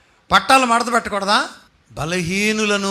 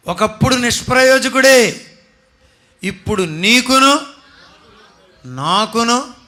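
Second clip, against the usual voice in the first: louder and higher, pressing the point; loud exhortation; 4 semitones higher, 6 dB louder than usual. Real, not acted. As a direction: call it out to the whole church. Preacher exhorting the congregation. (సంఘాన్ని గట్టిగా హెచ్చరించే స్వరం)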